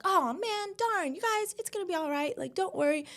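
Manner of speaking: high, soft, sing-song mom reassurance; mom calming kids. Retold or imitated. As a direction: play it breezy to hide fear. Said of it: "she's always been just like".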